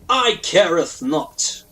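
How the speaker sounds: loud, slow archaic proclamation; put-on lordly outrage, easing off; mock indignant decree. Gamer decreeing a baby name to parents, mock indignant.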